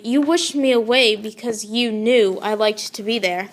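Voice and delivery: hurt and weepy, holding back tears; young lady weeps at her sister-in-law; weeping. Acted. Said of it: "wept the young lady".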